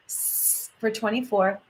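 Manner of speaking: long soft hiss on the s; drawn-out s like a snake. Shown as a demonstration. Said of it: "hissing sound like a snake".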